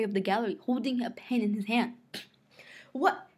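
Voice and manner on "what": high, drawn-out hail; raised, hearty shout; shouted call. A narrator's reading. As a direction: call out across the room. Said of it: "he shouted".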